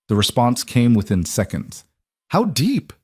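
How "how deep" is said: voice of a contact. Acted. Reply voiced by another figure.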